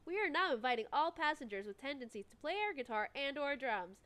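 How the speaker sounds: cheesy pilot welcome over the intercom; airport announcement. Acted. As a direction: play the airline pilot boarding call.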